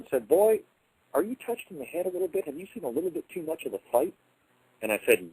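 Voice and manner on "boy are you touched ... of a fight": a soldier half-joking, half-concerned; mocking officer. Union officer leaning forward to tease the bugle boy, high mock concern.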